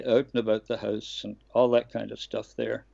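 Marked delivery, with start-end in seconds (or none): 0.0-1.2 lightly put-on Canadian accent. Shown as a demonstration. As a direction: say it with a hint of Canadian vowels. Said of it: "I had to learn how to say".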